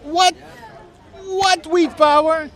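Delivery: high, loud, slowed-down disbelieving "what"; genuinely thrown by the remark, asking back; baffled surprise. Real, not acted. Streamer caught off guard by a remark, high incredulous what.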